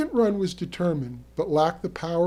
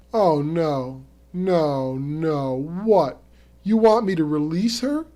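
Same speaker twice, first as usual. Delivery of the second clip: raised, disbelieving protest; yelling in protest; 5 dB louder, slower than usual. Acted. Angler to Terry over the fish, yelling in protest. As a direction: push it louder, outraged at the idea. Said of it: "I yelled".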